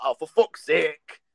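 slow exasperated groan; mock weary exasperation, slow. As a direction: drag it out like an annoyed friend. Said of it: "he's like".

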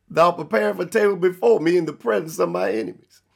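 fast, run-together verse reading; quick verse recap. Real, not acted. Preacher repeating the Psalms verse to drive it home, quick recap. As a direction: rattle the verse off in one unbroken run.

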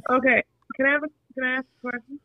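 phone held away. Real, not acted. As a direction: voice far from the phone. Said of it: "Talk, talk into the phone so we can hear you good".

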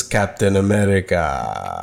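slow, low and drawn out, holding it too long; Red Skull drawl. Retold or imitated. Imitating Red Skull, drawing out the name slowly. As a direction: stretch "Captain America" out like a villain. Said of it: "he holds it a little too long".

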